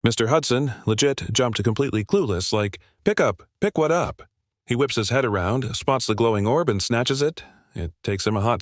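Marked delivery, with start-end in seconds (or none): 3.0-4.2 surprised. A narrator's reading. Clueless surprised reply.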